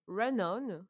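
"Run On" with an English-accented rʌn ɒn. Shown as a demonstration. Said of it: "avec mon accent anglais".

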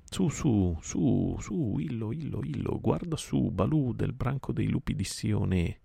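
high, reedy bird voice calling from above; a circling vulture calling down to the bear; high calling bird voice, urgent. Acted. Vulture Kil calls from the sky.

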